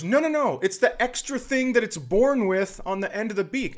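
put-on high, insistent girl voice; insistent daughter.

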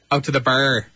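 put-on East Coast vowel on "bar"; East Coast Canadian accent. Co-host showing off accents, East Coast Canadian. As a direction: say it like a Maritime Canadian. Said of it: "what you get from the East Coast".

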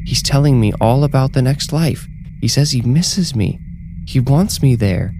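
high-pitched, fervent insistence; elated protest, lightly shouted; insistent outcry. A narrator's reading. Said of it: "she shouted".

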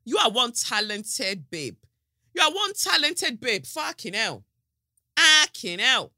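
high, slow, emphatic self-congratulation; hyped self-praise. Retold or imitated. Hyping herself while recording the audiobook, hammed-up amazement.

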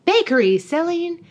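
imitated street seller; mock vendor call. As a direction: call out your wares in slow singsong. Voices vendors hawking brownies in story.

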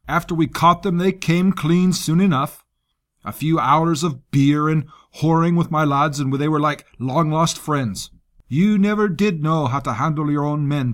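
lightly voiced coarse soldier; gruff commander voice. Rusk voiced by narrator.

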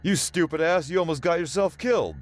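angry scream. Acted. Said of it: "O'Sullivan screamed".

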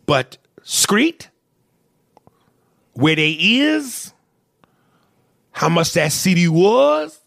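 Screet with sk for str; a hammed-up Screet; mock Screet. Shown as a demonstration. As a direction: say street as Screet. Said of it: "where do you get Screet".

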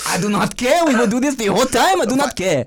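put-on French accent, playfully defiant; mock French accent. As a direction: declare it in a fake French accent. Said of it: "Our perfect accents we had".

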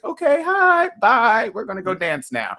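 very high quick hi and bye, then on the dance floor; high excited brush-off. Retold or imitated. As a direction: squeal a quick hello and goodbye. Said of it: "And I was like".

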